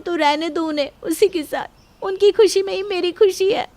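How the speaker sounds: usual speaking voice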